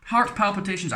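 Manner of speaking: high, slow, hammed-up panic voice; mock the health scare in a shrill warning tone; mock paranoid scaremonger. Vlogger mocking MSG scare believers, high hammed-up panic. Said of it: "there's that whole paranoid thing".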